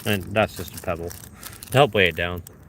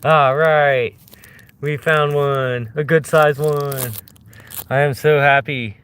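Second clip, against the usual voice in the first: excited; 4 semitones higher, 4 dB louder, slower than usual. Real, not acted. Excited at a good find.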